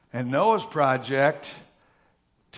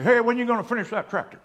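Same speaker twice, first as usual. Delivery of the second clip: higher, quick needling question; nagging visitor; 10 semitones higher, 6 dB louder, faster than usual. Retold or imitated. Visitors to the tractor owner, nagging. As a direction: imitate a pestering friend.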